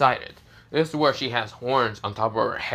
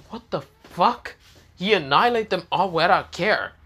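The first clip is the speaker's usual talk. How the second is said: shocked; 6 semitones higher than usual. Acted. Girls shocked by sudden annihilation.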